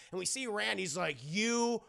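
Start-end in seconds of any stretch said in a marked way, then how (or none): 1.2-1.8 drawn-out angry curse, exploding at the end; seethe, then blast the last word; acted fury, loud on the final word; pissed off. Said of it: "He's really pissed at this point".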